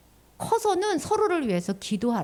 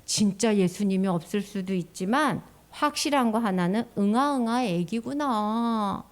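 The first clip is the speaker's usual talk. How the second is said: 속마음으로 하는 말; 3 semitones lower than usual. Pretend. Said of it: "속으로".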